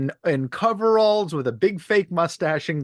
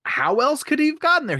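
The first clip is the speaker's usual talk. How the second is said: incredulous; 13 semitones higher than usual. Real, not acted. Incredulous reply in debate.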